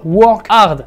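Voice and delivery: slow, emphatic English-accented phrase. Shown as a demonstration. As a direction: put on a little English accent. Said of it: "super accent anglais".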